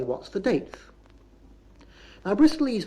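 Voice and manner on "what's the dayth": "date" ending in th, as "dayth"; Bristol pronunciation. Shown as a demonstration. Lecturer explains Bristol habit, "date" pronounced "dayth". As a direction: rhyme the ending of "date" with "fifteenth". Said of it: "so we say".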